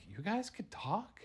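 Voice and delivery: high-pitched amazed question; astonished question. Acted. Fry discovers meatball and shake can talk, astonished. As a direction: let the pitch leap up in surprise.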